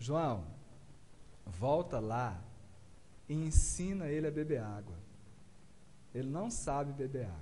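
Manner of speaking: low, calm, serene voice.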